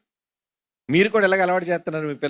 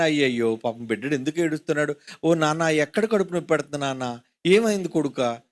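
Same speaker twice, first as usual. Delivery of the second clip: mock doting parent; 3 semitones lower, 4 dB quieter than usual. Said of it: "మనం అనుకుంటాం కదా".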